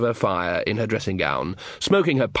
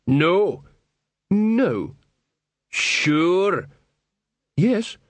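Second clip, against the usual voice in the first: quick exchange; 7 semitones higher, much slower than usual. Acted. Quick troll-wizard exchange.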